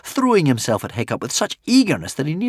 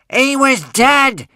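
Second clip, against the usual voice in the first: much higher, louder, slow injured yell; 7 dB louder, much slower than usual. Acted. Alvin protesting to the witch, injured yell. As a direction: yell it, feeling wronged. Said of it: "yelled Alvin".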